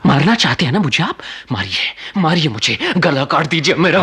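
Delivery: desperate goading. Acted. Young man begging to be killed.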